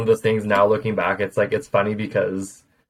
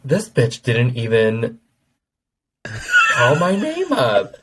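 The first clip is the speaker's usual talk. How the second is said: tag; 3 semitones higher, much slower than usual. Retold or imitated. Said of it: "why I'm so fucking angry".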